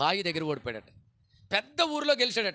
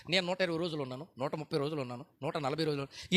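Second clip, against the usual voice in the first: mock boaster; 4 semitones lower, 4 dB quieter than usual. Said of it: "కొంతమంది రికార్డులు చెప్తూ ఉంటారు".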